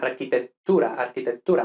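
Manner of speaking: arquitectura as architet-tura, long held t; double t. Shown as a demonstration. Teacher models for learners, arquitectura with double t. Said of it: "no arquitectura".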